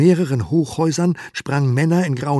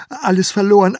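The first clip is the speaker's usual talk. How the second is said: loud, higher desperate wail; panicked cry; 9 semitones higher, 10 dB louder than usual. Acted. Herr K. crying to his wife in loud panic. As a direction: cry out in ruin.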